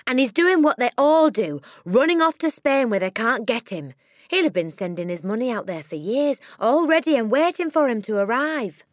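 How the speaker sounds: a blustering crook bragging loudly; father voiced. A narrator's reading. Narrator voicing the father, loud and scornful. Father ranting about fleeing to Spain.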